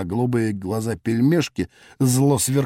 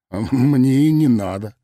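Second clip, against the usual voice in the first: level reply; slower than usual. Acted. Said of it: "ровно ответил я".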